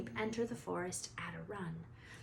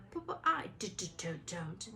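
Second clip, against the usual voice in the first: panicked stutter; 3 dB quieter than usual. Acted. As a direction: choke on each d. Quirrell stutters.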